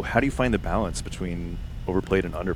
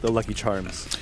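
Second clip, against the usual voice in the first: mock insistent; 3 semitones higher than usual. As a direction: tease her by mimicking her firm no, starting high. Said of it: "I love that you were like".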